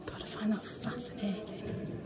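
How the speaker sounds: slow, awed whisper. Real, not acted. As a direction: breathe it out in wonder. Awed whisper among ancient stones.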